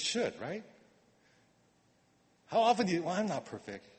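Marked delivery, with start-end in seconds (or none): 3.0-3.9 casual, shrugging mock excuse; flippant. Mocking a churchgoer's careless excuse, shrugging. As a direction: toss it off lightly, half-hearted. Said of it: "you throw that out there really flippantly".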